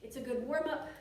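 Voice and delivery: winded, breathing between words. Real, not acted. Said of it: "I'm getting a little, um, out of breath here".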